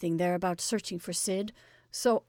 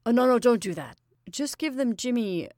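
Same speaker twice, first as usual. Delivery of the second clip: hurried, flustered take-back, a bit louder; hasty correction; 3 semitones higher, 3 dB louder than usual. Acted. Jimmy hastily correcting his order to the messenger, flustered. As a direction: rush to undo what you just said. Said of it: "he added hastily".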